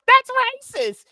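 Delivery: high, drawn-out mock accusation; mock reporter. Podcaster mimics reporter accusing president of racism, high mocking whine. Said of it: "The reporter said".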